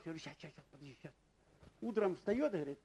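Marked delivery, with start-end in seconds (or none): 0.2-1.1 much softer, absent-minded brush-off; distracted mumble. Gamer brushing off his wife, mumbled softly. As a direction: mumble it without looking up from the game.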